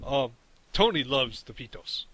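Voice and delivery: announcement voice. Retold or imitated. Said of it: "I have an announcement".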